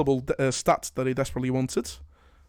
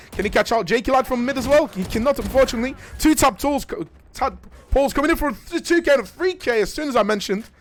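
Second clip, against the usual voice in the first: lively, higher-pitched commentary; animated esports caster; excited play-by-play; 7 semitones higher, 4 dB louder than usual. Real, not acted. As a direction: keep up with the action.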